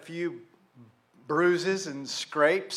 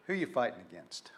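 low, soft, quick murmur of the question; quiet, fast reprise; 6 semitones lower, 6 dB quieter, much faster than usual. Real, not acted. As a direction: let it drop almost to yourself. Preacher repeats question quietly.

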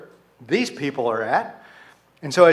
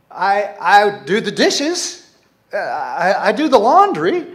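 defensive spouse; 3 semitones higher, 4 dB louder than usual. Acted. Accused spouse listing household chores, defensive. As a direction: play a spouse stammering out their chores in defence. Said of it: "And the spouse says".

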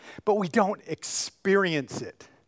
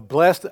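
"blessed" leaned on, louder; stress on blessed; 6 dB louder than usual. Shown as a demonstration. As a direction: punch the word "blessed". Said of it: "emphasize the word blessed".

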